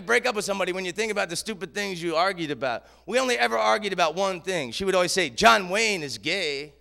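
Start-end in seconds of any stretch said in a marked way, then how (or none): 5.3-6.7 slow, matter-of-fact mock French accent. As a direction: state it flatly in a light French accent. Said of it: "She had the greatest French accent".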